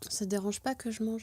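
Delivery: speaking with a mouth full; eating mid-sentence; chewing while talking. Real, not acted. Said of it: "Je sais parler la bouche pleine".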